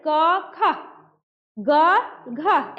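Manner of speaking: क and ग plain, ख and घ each pushed out with a clear breath of h; teacher showing ख and घ with audible h-breath; aspiration demo. Shown as a demonstration. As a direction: contrast क with a breathy ख, and ग with a breathy घ. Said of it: "ऐसे पढ़ते हैं".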